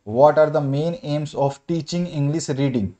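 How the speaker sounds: slow, word-by-word question dictation; teacher dictating a question; dictation reading. Acted. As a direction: read the question out slowly so students can write it. Dictates exam question slowly.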